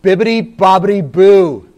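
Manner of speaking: lightly voiced magic spell; a hint of a sing-song fairy godmother. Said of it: "said the fairy godmother".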